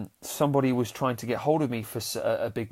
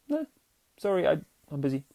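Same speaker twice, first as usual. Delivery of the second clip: quick firm no; 2 semitones higher, faster than usual. Retold or imitated. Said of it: "if we just go".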